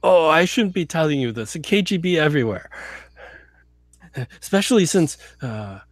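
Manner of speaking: lightly played drunk Russian; drunk Russian agent. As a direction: stumble through it like a tipsy spy.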